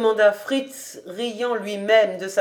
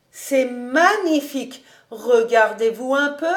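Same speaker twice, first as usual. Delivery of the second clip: mildly higher, delighted housekeeper; admiring exclamation; 4 semitones higher than usual. Acted. Housekeeper admiring master in his new coat, mildly delighted. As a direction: admire him with a touch of delight.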